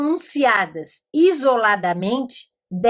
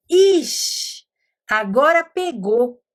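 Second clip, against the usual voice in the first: put-on boy stumped; 2 semitones higher, slower than usual. Teacher imitating the pupil facing "cachorro", lightly stuck. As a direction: play the boy realising the word is hard. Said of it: "Daí ele falou".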